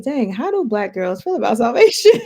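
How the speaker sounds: high, loud, laughing self-quote. Retold or imitated. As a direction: laugh through your own question. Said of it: "I'm like".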